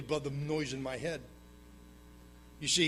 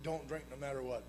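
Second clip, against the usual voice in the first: heard as a command; 3 semitones lower, 10 dB quieter than usual. Retold or imitated. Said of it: "I heard him say".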